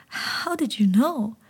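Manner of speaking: put-on slow, tearful child's question; frightened boy asking the frog; small boy's voice. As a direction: ask through sniffles.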